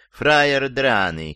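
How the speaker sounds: prim, over-polite "фраер драный"; too refined. Shown as a demonstration. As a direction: say "фраер драный" like an intellectual, slowly. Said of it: "слишком интеллигентно".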